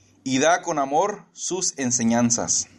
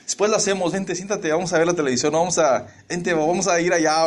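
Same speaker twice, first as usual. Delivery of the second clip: coaxing husband; 4 semitones higher than usual. Retold or imitated. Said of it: "y le digo".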